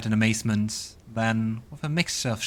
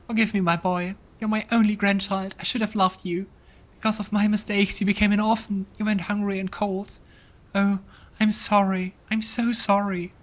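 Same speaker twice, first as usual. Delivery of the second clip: put-on much higher, pleading old man; remorseful grandfather; 10 semitones higher than usual. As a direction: beg his grandson's forgiveness. Grandfather apologises in vision.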